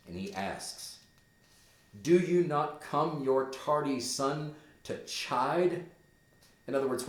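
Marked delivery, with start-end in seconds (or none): 2.0-5.8 Hamlet guilty. Acted. Hamlet questions the ghost.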